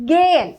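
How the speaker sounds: "ഗേൻ" as gay-en with a long drawn "ay"; long E sound. Shown as a demonstration. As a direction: hold the long vowel in "ഗേൻ", no h. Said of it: "എ sound ആണ് വരിക". ("ഗേൻ" നീണ്ട ഏ ശബ്ദത്തിൽ)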